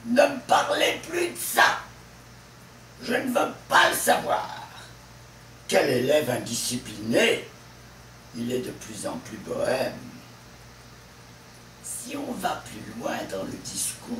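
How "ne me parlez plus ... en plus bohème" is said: emphatic example sentences landing on "ça", "savoir", "indiscipliné", "bohème"; stress on last syllable. Shown as a demonstration. Teacher demonstrating stress on word groups, endings of "ça", "savoir", "indiscipliné" pressed hard. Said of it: "le stress est toujours sur la dernière syllabe".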